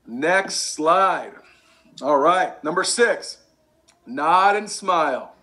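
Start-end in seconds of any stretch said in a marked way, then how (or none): 4.0-5.3 slow demo. Shown as a demonstration. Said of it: "You gotta be like a bobblehead".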